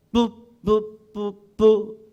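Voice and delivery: alarm horn blasts; staccato. Shown as a demonstration. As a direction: sound the alarm, short blasts. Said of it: "이거 이제 큰일 난 거예요".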